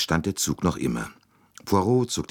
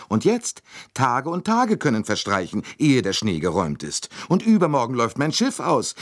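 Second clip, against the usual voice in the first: indignant Mrs Hubbard; 7 semitones higher than usual. A narrator's reading. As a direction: pitch her up and let the outrage run. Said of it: "Misses Hubbards Stimme siegreich".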